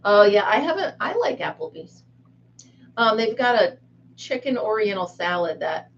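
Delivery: normal talking voice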